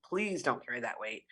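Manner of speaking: a low, tender echo of the plea; soft plea. Real, not acted.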